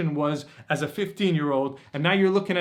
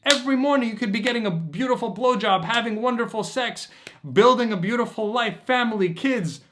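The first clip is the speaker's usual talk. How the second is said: grab him by the shoulders with your voice; shaking them awake; 6 semitones higher than usual. Acted. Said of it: "take 'em and shake 'em and say".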